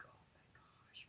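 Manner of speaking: whispered under the breath; dismayed whisper. Retold or imitated. Seeing the angry person coming, a dismayed whisper. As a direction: breathe it out, dreading them coming. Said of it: "you're like".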